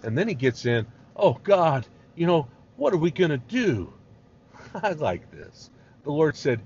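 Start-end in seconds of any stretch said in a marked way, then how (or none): 1.1-3.9 loud, higher-pitched mock panic; crying to God. Moses turning to God in trouble, acted panicky cry. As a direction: wail a hammed-up plea for help. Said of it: "he started crying to God".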